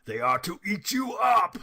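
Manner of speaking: loud, high snarling shout; big bad wolf shouting to scare; wolf's roar. A narrator's reading. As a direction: pounce with the words. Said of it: "said the wolf".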